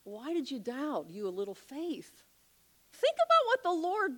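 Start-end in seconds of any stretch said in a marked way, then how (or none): 0.0-2.2 gentle rebuke. Retold or imitated. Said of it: "and says".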